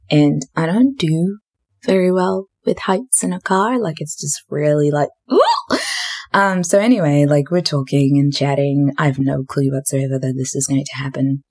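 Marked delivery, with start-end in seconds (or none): 5.3-5.8 high-pitched squeamish "ooh". Retold or imitated. Recalling her fear of heights in a car, squeamish high ooh.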